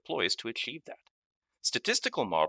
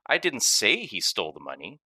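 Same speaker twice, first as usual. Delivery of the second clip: "say" given the weight, the rest even; stress on say. Shown as a demonstration. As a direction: lean on "say". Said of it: "based on which word carries the emphasis".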